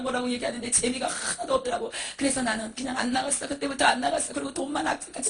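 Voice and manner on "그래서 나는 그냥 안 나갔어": ordinary talk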